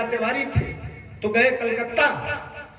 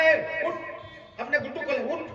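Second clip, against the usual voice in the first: mock yell; 2 semitones higher, 4 dB quieter, faster than usual. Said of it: "हमने कहा".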